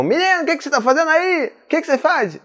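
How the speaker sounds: high-pitched, exasperated telling-off; mock scolding adult. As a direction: imitate a parent catching a child misbehaving. Acts out an adult scolding child.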